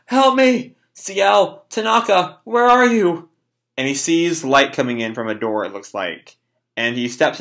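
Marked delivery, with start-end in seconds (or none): 0.1-3.3 high cries for help; acted panicked calling. Boy running off seeking C L and Tanaka, panicked calling. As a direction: call out names in a raised, frantic pitch.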